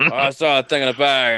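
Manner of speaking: badly faked character accent; Strong Bad. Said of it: "my bad accent there".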